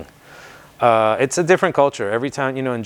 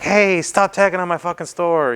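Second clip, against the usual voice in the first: mimicked angry shopkeeper; 8 semitones higher than usual. Shop owner yelling at tagger.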